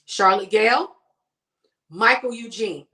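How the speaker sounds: loud first-and-middle-name warning; stern name call, first name lifted at the end; warning mom tone. Shown as a demonstration. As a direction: call your kids' full names like they're in trouble. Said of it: "in the tone and the look".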